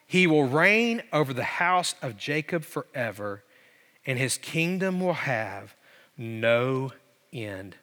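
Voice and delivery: slow reading, sinking low and soft; solemn proclamation. Retold or imitated. Preacher quotes the angel on Jesus' reign, solemn proclamation. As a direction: let it fall away, pausing before the last words.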